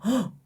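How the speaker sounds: short, high-pitched mock gasp; sharp little gasp of pretend surprise. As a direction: gasp as if suddenly shocked. Mock shock at being played.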